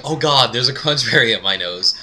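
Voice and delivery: mildly acted alarm; freaking out. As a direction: play a kid starting to panic. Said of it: "I'm freaking out".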